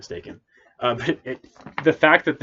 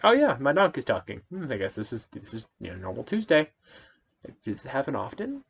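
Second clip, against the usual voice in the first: mock nonchalant; 4 semitones higher than usual. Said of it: "he just takes it so nonchalantly".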